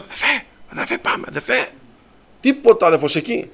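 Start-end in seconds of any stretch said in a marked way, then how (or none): 0.0-1.7 hushed, furtive call to leave; urgent whisper. Retold or imitated. Frightened speaker at the door calling his companion away, whispering. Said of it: "Δεν φωνάζω".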